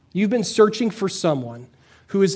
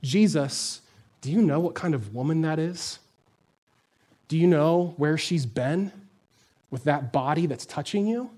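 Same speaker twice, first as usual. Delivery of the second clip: judgmental disciples; 3 semitones lower, 5 dB quieter than usual. Retold or imitated. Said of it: "all the good Christian people say".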